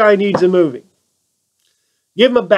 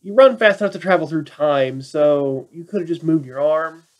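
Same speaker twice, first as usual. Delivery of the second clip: deadpan retort. Retold or imitated. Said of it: "I'm like".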